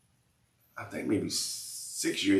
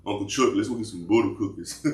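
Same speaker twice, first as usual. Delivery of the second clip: laughing mock Dolph line. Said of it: "she kept saying".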